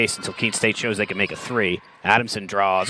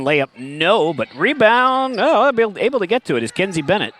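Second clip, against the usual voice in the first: excited call; 9 semitones higher than usual. Real, not acted. Excited play-by-play rebound call.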